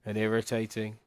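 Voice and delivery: slow, drawn-out mock whine about sand; quoting Anakin. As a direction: do Anakin's sand line, dragging it out. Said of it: "I don't like sand".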